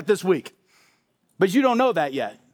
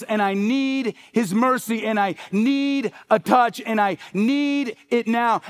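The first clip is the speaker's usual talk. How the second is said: desperate need; 3 semitones higher than usual. Acted. Beggar's desperate inner voice.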